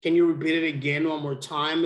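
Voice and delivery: usual speaking voice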